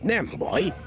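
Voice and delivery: lightly voiced scheming cat; puzzled cat. Cat wonders where they went, lightly voiced puzzlement.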